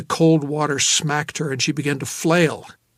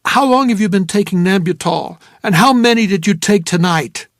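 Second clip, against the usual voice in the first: a touch of urgent questioning; 4 semitones higher, 6 dB louder than usual. Acted. Interrogating the drugged woman.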